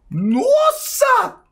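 very high astonished shout; amazed cry. Real, not acted. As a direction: gasp it out in amazement. Amazed at flying house. (espanto agudo)

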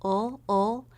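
repeated separate "ul", tongue behind the teeth; isolated L sound. Shown as a demonstration. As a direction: sound out the L alone as "ul". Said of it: "the tongue tip will come up here".

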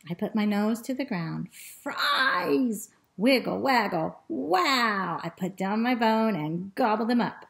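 put-on lively, expressive children's storytelling; animated story reading. A narrator's reading. Teacher reads the dog's adventure to children, animated storytelling. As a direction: read it with big swoops and stretched key words.

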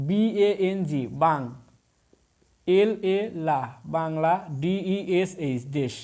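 teacher sounding out বাং, লা, দেশ after their letters; syllable-by-syllable demo. Shown as a demonstration. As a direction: spell each part, then say its syllable: বাং, লা, দেশ. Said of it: "কয়বার উচ্চারণ করা যায়".

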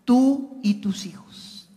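slow, hushed whisper of God's words; whispered promise. Real, not acted. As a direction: breathe it out like a sacred secret. (susurro lento y reverente)

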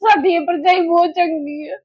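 tearful blessing; crying. Acted. Sister blesses her brother's wife while still crying. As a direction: bless her through sobs. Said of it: "ਬਸ ਚੁੱਪ ਕਰ ਜਾ".

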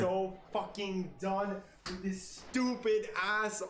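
very soft, defeated voice; hushed, spent exasperation; drained muttering. Real, not acted. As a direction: mutter it weakly, totally done. Worn out after falling off chair.

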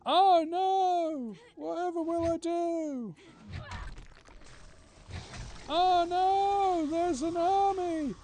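mock panic. Mock panic at zombie army.

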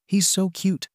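high, gentle coo. A narrator's reading. Ochako gushing over her friend's crush, cooing. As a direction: coo over someone adorable. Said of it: "Ochako cooed".

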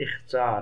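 اختار opening on a clear i, as ikhtaar; hamza pronounced initially. Shown as a demonstration. Teacher showing the start of speech, اختار with its initial i sounded. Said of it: "أنا أنطقها لأنها في بداية وأول الكلام".

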